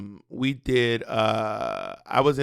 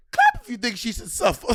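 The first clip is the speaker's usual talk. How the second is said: higher, deadpan Wendy Williams line; imitating Wendy Williams; 9 semitones higher than usual. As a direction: deliver it like a talk-show host. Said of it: "She just goes".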